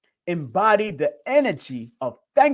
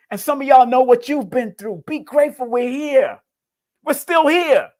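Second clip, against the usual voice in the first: higher, louder, close to tearing up; near tears; 8 semitones higher, 4 dB louder than usual. Real, not acted. Host on the edge of tears, speaking of hardship, higher and louder. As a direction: voice lifts as real tears come. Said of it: "I'm about to tear up again".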